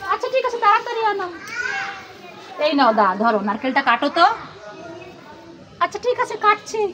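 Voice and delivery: put-on lightly high, hushed kid voice; a kid plotting a secret; conspiring child. Child telling mummy to keep quiet and cook noodles, lightly high.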